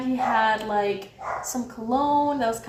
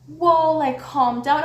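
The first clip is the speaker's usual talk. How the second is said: louder, higher opening, easing off; startled pushback; 3 semitones higher, 5 dB louder, slower than usual. Retold or imitated. Guard reacting to her raised voice, startled. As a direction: blurt a retold plea to back off.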